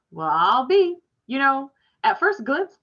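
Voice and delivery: a man struck with surprise; a stranger amazed to meet Herman's boy; surprised. Acted.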